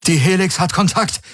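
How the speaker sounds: high, urgent shout-out; breathless call. A narrator's reading. Pilot calling news to his crew, breathless and urgent. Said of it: "rief er atemlos zu Kirai und Hox".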